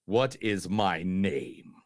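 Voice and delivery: low, slow solemn quote reading; slow solemn priest. Acted. Host quoting the exorcist to his cohost, solemn. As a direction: speak like a grave old priest.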